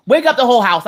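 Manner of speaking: exasperated mock yell; fed-up outburst. Giving up whispering, yelling.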